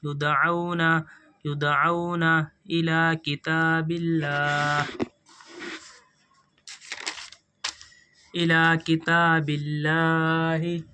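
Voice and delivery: slow, measured chanted recitation of the verse; Quran recitation. Acted. Teacher reciting the verse slowly for students to follow. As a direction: recite it slowly, drawing out each word.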